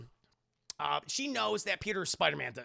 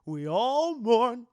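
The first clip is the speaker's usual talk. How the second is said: Aunt May voice; 8 dB louder than usual. Retold or imitated. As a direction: lecture him like a no-nonsense aunt. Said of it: "Aunt May speech".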